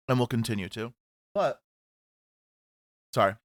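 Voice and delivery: talking through a mouthful of kale chips; mouth full. Real, not acted. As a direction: speak around a bite of food. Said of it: "I have kale chips in my mouth".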